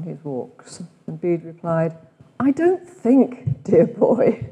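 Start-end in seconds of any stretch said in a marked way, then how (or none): 2.4-4.5 slow, drawn-out cut-glass Oxford English; imitating Bede's cut-glass Oxford English; posh Oxford English. Retreat leader quoting Bede in Oxford English. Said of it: "He had quite a cut glass Oxford English accent".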